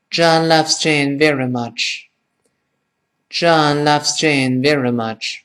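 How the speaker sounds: John loves Jane very much, slowly linked as one phrase; linked reading. Shown as a demonstration. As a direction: run the words together without gaps, slowly. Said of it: "我们读到一块儿连起来". (连读，慢速示范)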